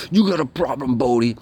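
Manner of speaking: loud, high, confrontational bark; aggressive challenge. Retold or imitated. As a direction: get right in his face with it. Leader up in his face.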